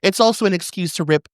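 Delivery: broad Australian letter-reading voice; Australian accent. Acted. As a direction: ham up the letter in an Aussie accent. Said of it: "read this in an Australian accent".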